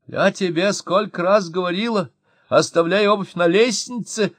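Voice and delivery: high, loud nagging shout; shouting wife. A narrator's reading. Wife shouting at her husband, high loud nag. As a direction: yell the old complaint again. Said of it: "крикнула жена".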